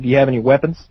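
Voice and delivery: straight-faced question, no joke in it; deadpan. Retold or imitated. Uncle asking the nephews about weapons, deadpan. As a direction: ask it completely matter-of-fact. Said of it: "Like, straight face".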